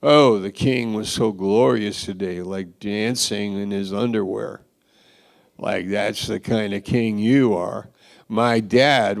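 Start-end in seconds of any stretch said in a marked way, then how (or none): 0.0-4.6 sarcastic. Retold or imitated. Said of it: "It's sarcasm".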